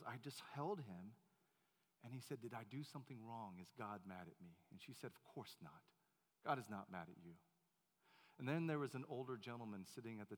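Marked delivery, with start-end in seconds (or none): 0.1-7.4 much softer and lower; hushed tender storytelling; hushed retelling. Retold or imitated. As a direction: tell it gently, close to the mic.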